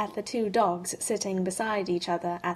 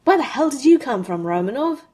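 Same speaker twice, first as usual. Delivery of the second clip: loud, high, rushed demand; startled outburst; 6 semitones higher, 8 dB louder than usual. Acted. Tony demanding where Romanov came from, startled outburst. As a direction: blurt it out, jolted and indignant.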